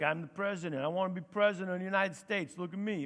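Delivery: New York accent; lightly put-on New York accent; a brisk try at a New Yorker; Donald Trump. Shown as a demonstration. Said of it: "do him like New York".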